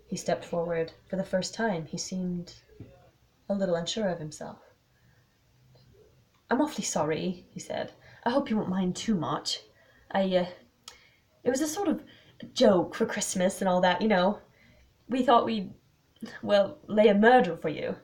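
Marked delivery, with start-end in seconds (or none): 6.5-18.0 halting, lightly voiced apology; hesitant, louder on the restarts; apologetic young man. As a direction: stumble sheepishly through an excuse.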